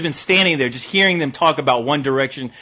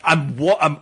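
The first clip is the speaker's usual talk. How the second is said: normal talking voice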